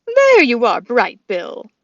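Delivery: goose honk call. Acted. Loudwing honked.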